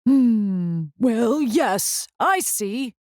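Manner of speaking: lightly voiced doctor murmuring on the phone; a doctor musing into the phone; mumbled. A narrator's reading. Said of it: "Doctor Bumble mumbled".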